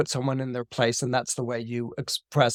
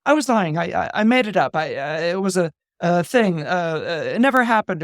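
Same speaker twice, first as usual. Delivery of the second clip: backpedaling; 2 semitones higher than usual. Retold or imitated. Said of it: "he's like".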